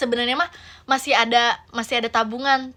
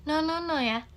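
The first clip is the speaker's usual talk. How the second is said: put-on soft, quiet coaxing of a restless toddler; gentle coaxing mother; 7 dB quieter than usual. Mother softly coaxing toddler to sit in public, quiet and gentle. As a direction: soothe the child into sitting.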